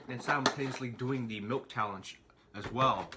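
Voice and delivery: quiet strained voice, nearly gagging. Real, not acted. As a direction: talk while fighting a gag reflex. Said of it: "experiencing a gag reflex".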